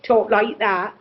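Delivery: lightly demonstrated English country accent; a hint of rural English burr. Shown as a demonstration. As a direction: talk like country folk. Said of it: "they're from the country".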